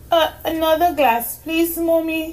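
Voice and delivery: put-on high, sleepy girl voice; a tired little girl asking sweetly; young girl voice. A narrator's reading.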